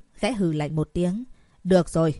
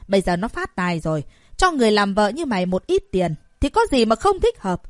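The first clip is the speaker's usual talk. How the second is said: louder, scornful scolding; cold scoff; 4 dB louder than usual. Acted. Mother scolding her daughter about money, scornful and loud. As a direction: sneer at her for hiding money. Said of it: "hừ lạnh nói".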